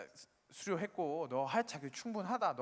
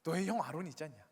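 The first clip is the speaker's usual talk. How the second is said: loud sharp "hey", then mild scolding; mildly cross reproach after a loud opening call; acted anger; 3 dB louder than usual. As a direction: play an exasperated God telling someone off. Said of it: "하나님께서 이제 화를 내시는 거죠".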